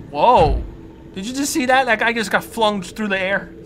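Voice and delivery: loud, high startled exclaim; startled whoa. Real, not acted. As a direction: blurt it out in shock. Sees creature fling something.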